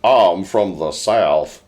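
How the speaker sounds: slow, drawn-out mock Southern drawl; mock Southern accent. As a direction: imitate a bad Southern accent. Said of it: "You should do the accent from".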